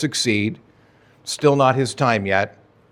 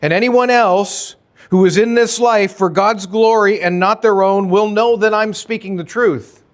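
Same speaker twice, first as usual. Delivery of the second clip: raised, higher preaching voice, fired up; fervent preaching; 8 semitones higher, 4 dB louder than usual. Real, not acted. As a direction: proclaim it with full conviction. Preacher building to a peak.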